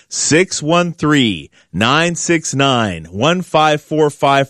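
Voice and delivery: spaced-out slow dictation for note-taking; real slow. Real, not acted. Radio host giving listeners the phone number to write down, real slow. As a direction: read out slowly, digit by digit. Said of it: "I'm gonna say it real slow".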